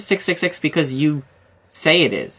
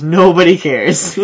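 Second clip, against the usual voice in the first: slow, flat dismissive drawl; deadpan; 3 semitones higher, 7 dB louder, slower than usual. Retold or imitated. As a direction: say it like nobody cares at all. Quoting friend's deadpan dismissal.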